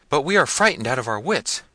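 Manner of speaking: high, loud helpless wail; frightened servants. A narrator's reading. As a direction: answer your master high and flustered.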